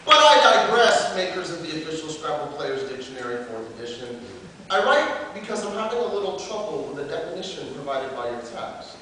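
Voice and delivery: declaimed slam-poet letter; open letter performance. Acted. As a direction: address the makers formally, as a performed piece.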